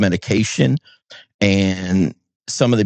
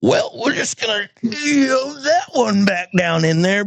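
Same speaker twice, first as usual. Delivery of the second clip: high flippant voice; 12 semitones higher than usual. Retold or imitated. Self quote, high.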